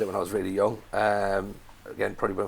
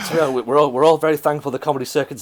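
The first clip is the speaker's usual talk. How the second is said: laughing loud through the words; 4 semitones higher, 9 dB louder than usual. Real, not acted. Laughing to mates about dead comedy circuit, laughing loud. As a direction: crack up as you say it.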